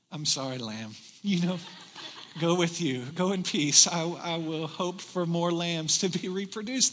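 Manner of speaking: a timid shepherd giving up the lamb, lightly voiced; meek shepherd. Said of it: "That's not David's heart".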